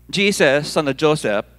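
put-on exclamation with a Filipino accent. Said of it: "hear them speak in a very strong Filipino accent".

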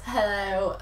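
put-on slurred drunken hello. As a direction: say it like you've had too many. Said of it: "in my drunken voice".

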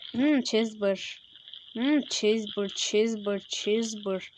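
low, slow, drawn-out hmm of delight; mock savouring. Gamer playfully drooling over Chesbur, low drawn-out hum. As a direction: savour the word like a tasty treat, low.

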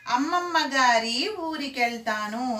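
put-on slow children's rhyme recitation; teacher reciting a little girl's rhyme; singsong rhyme. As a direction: chant it slowly, stretching the vowels. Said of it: "ఒక పాప పాడుంది".

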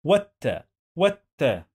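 والت said "wat-ta", with no l; silent lam. Shown as a demonstration. Teacher explaining لام شمسية, silent lam in والت. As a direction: skip the l in والت, straight onto double t. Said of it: "We don't pronounce this لام".

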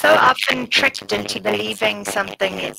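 glitchy robotic mic voice. Real, not acted. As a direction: voice breaking up like a robot. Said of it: "your mic seems to be giving you robot voice".

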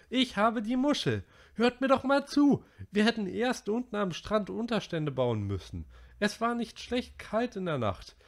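high, loud outburst; Piggy losing his temper. A narrator's reading. Piggy furious at the boys for laughing, loud and high. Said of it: "Piggy platzte der Kragen".

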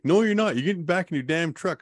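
high, stern imitation of the lady; lady ordering the injured man back into his truck; bossy lady. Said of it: "She's like".

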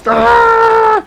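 sudden very high yelp of surprise; shocked gasp. Real, not acted. Gamer sees the chest result, high shocked yelp. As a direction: squeal as the prize appears.

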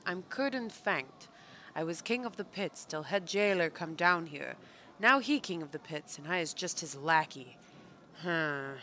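a hint of a deposed pit king, broken grammar; lightly voiced pit creature. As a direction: lightly act out a sullen underling. Reads game character's dialogue aloud.

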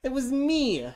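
high, loud squeaky cry; small warthog squeaks his confession. A narrator's reading. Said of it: "in a squeaky voice".

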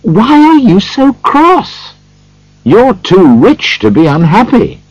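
high, smiling, teasing reply; bright-humoured nephew, high voice. A narrator's reading. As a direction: tease a grumpy uncle cheerfully, pitch well up.

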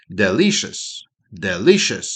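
"Delicious" as de-LI-shus, rise then fall; teacher's model word; model pronunciation. Shown as a demonstration. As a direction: say "Delicious" twice, once rising then falling. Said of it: "воно важливе".

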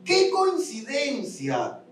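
slow sarcastic exclamation; mock amazement. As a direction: sneer at the idea of luck. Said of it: "Muchos podrían decir".

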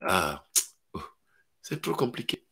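low, soft sighing excuse; the demons whine it's too hard. Retold or imitated. Family demons discourage the believer, low soft sigh. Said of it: "les démons de ta famille qui dit".

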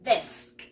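"Desk" sounded just as it is spelt; pronounced as written. Shown as a demonstration. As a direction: clear model of "Desk", every letter as written. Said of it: "Pronunciamos igualito como se escribe". ("Desk" pronunciado igualito como se escribe)

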